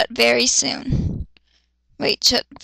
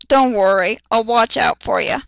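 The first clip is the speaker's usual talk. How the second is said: gruff tough guy; 2 semitones lower than usual. Acted. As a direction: growl it like a big brute. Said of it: "Kenpachi said".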